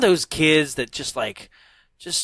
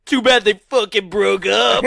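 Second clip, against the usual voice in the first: laughing mock shout, pitched up; 7 semitones higher, 6 dB louder than usual. Retelling a fan's reaction, laughing mock shout. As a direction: blurt it out through laughter. Retelling a guy's excited remark.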